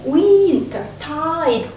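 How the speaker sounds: winter tide lifted high and slow; high sound. Shown as a demonstration. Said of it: "that's a high sound".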